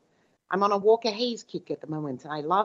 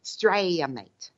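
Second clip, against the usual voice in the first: mock Aussie "Australia, mate"; Australian accent; 6 dB louder, slower than usual. Shown as a demonstration. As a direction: put on an Australian accent briefly. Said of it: "she doesn't have Australian accent".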